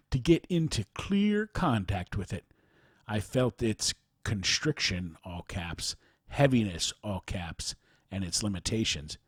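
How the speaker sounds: measured account read aloud. Real, not acted. Host reads a written account of a spiritual teacher, measured narration. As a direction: read a personal testimony clearly, phrase by phrase.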